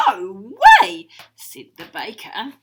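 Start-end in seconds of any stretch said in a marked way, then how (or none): 0.1-1.1 loud, higher refusal yell; defiant shout. Acted. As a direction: shout no way back.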